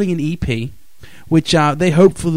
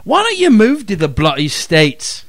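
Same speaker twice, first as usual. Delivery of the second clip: English accent put on for a joke; indignant question in a mock English accent; lively, higher-pitched English-accent complaint; 4 semitones higher than usual. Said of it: "in his best English accent".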